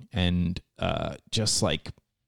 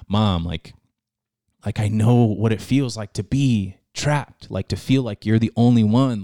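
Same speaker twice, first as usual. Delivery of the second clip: pleading to mom; 5 dB louder than usual. Retold or imitated. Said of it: "telling her, like".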